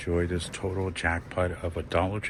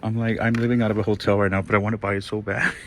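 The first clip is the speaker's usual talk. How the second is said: gushing rush; 2 semitones higher, 5 dB louder, faster than usual. Real, not acted. Gushing about wanting to buy.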